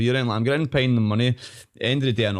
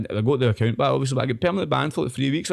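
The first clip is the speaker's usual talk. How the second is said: ordinary talk, nothing marked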